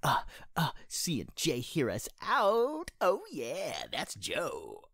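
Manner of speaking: hammed-up radio DJ intro; mock radio station host welcome. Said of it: "Why do you sound like a radio station?".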